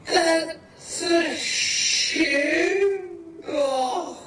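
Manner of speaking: hammed-up outraged yell at the shoe box; mock scream. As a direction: shout it like a fed-up renter. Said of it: "You're screaming at me".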